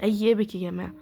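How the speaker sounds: loud, eager plea to the viewers; excited plea. Real, not acted. Gamer begging the pack for an epic, loud plea. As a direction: call out hoping for an epic.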